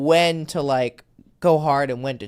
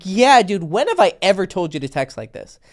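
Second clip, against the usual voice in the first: scolding friend; 2 semitones higher, 4 dB louder than usual. Retold or imitated. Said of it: "I'm like".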